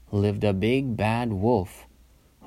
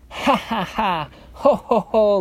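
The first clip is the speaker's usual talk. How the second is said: high ha-ha into louder ho-ho; acted laughter; 10 semitones higher, 4 dB louder than usual. A narrator's reading. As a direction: laugh as two gleeful piglets. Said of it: "laughed the two little pigs".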